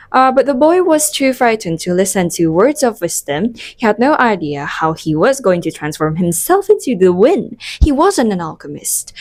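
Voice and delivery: reading an English novel passage aloud; book reading. Acted.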